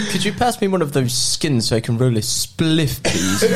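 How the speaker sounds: put-on posh English student accent; mock posh English. Friend mocking students asking for skins, put-on posh English accent. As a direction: imitate students talking proper English. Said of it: "like, talking English".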